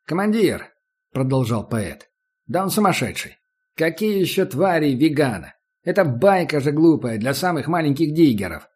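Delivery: put-on agitated young man. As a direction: panic and plead with the commander. Young digger protesting.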